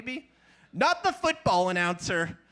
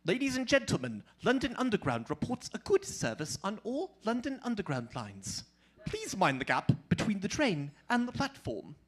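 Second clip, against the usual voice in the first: London Underground announcer; 4 dB quieter than usual. Retold or imitated. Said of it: "you probably heard it goes".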